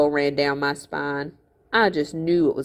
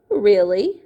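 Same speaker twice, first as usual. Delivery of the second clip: amused; 4 semitones higher, 4 dB louder than usual. Acted.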